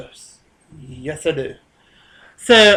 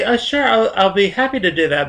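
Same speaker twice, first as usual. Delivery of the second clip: higher-pitched, dutifully happy yes; convincingly obliging; 4 semitones higher than usual. Retold or imitated. Worker answering the lead's request, politely obliging. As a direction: sound convincingly happy to help. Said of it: "You gotta say that convincingly".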